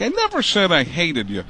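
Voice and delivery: gruff Madden impression. Madden denies hating the comedian, gruff impression. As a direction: grumble it like Madden. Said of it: "he's like".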